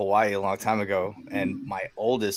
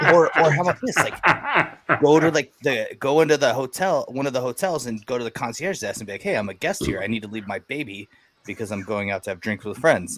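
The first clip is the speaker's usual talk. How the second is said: casual buddy advice; 3 semitones higher than usual. Retold or imitated. Buddy breezily telling a new dad, lightly voiced. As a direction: play the buddy as if it's obvious.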